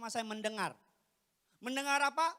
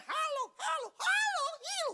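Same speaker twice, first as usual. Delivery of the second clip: changed disguise voices; 8 dB louder than usual. Acted. Son trying disguises on his mother, high silly voices. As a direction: run of very high put-on hellos. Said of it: "suara saya ubah kayak apa juga".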